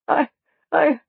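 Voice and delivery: high, slow, stammered wail. A narrator's reading. Lost woman who forgets her name, wailing. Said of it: "she wailed".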